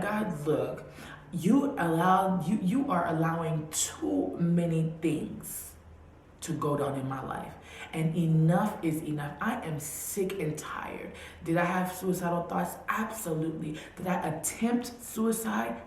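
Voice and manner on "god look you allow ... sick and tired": slow, loud pleading outburst; angry at God. Retold or imitated. Railing at God in anger, slow and loud. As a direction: lay it out to God, drawn out and forceful. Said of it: "was I angry at God? Absolutely".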